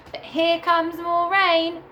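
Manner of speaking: high, slow dramatic warning; mock dismay. A narrator's reading. Reading to children, warning that rain is coming in mock alarm.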